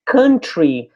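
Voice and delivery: "country" with a short uh vowel, kuhn-tree; "country" pronounced kuhn-tree, never cow-ntry. Shown as a demonstration. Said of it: "lembra que country é sempre assim".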